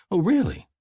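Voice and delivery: high mocking "Oh, really?"; sneering. A narrator's reading. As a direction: sneer it at him. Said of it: "Her voice is a sneer".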